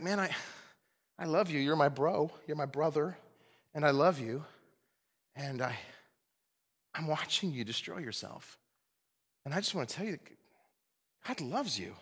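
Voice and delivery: soft, halting, heartfelt plea; gently reach out to a brother, pausing between thoughts; tender appeal. Acted. Preacher as friend to a brother entangled in sin, tender.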